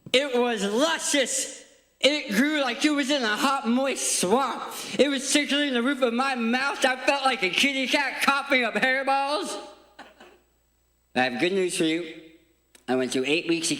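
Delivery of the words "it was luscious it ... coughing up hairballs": playful high voice. Acted. Comic gross-out story to kids.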